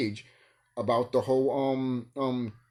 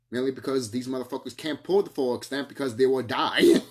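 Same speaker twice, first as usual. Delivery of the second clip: laughing; 5 dB louder than usual. Real, not acted. Laughing at her own point.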